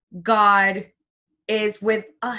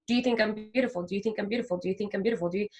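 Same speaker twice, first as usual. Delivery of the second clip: softer and softer asking; soft repeated question; 6 dB quieter, much faster than usual. Retold or imitated. Asking ten people, softening question. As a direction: ask again, fading each time.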